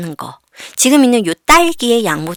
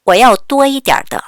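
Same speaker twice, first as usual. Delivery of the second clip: very slow and a little louder; slow read-along; 4 semitones higher, 4 dB louder, much slower than usual. Shown as a demonstration. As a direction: lead the class through it syllable by syllable. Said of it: "같이 읽어볼까요?".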